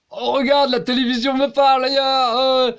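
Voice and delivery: high, loud wide-eyed excitement; mock amazement. Mocking a viewer who thinks the TV talks to him, high and loud. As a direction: play a dazzled viewer.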